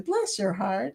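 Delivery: softly said, lifting at the end; different meaning. Shown as a demonstration. Contrasting ways of saying it by accent, soft take. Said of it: "that means something totally different than".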